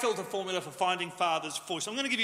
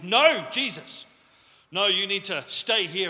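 urgent protest; 7 dB louder, slower than usual. Retold or imitated. Peter protesting to Jesus.

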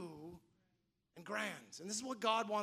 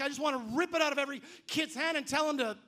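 loud, high exasperated rant; fed up; 5 semitones higher, 6 dB louder, faster than usual. Retold or imitated. Parent at a noisy school carnival, loudly exasperated. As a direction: rush it out in mock frustration.

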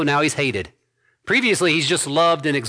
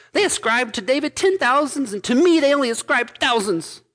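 higher, whining complaint; jealous king's whiny grumble, pitched higher; 9 semitones higher than usual. Acted. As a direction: whine it like a jealous child. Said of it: "read it with a whiny voice".

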